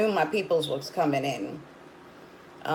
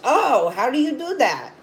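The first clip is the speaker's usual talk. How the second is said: higher-pitched imitation of a curious clerk; store clerk; 6 semitones higher than usual. Counter guy asks customer about cannabis oil, curious imitation. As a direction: mimic the counter guy's surprised question. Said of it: "the guy at the counter".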